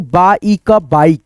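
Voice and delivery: बा ई का slowly blended into बाइक; slow syllable-by-syllable spelling, then the word; sounding out. Shown as a demonstration. Teacher blending sounds for students, slow. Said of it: "क्या पढ़ते हो?".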